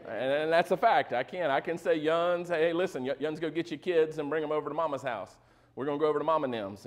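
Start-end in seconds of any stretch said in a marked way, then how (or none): 2.0-6.9 a hint of a Southern mom calling the kids over; Southern accent. Shown as a demonstration. Pastor showing his Michigan members he speaks Southern, light Southern accent. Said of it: "I can speak English and Southern".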